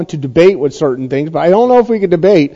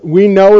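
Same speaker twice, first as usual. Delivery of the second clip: emphatic "We know", know stressed. Shown as a demonstration. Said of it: "is in the emphatic position in Greek".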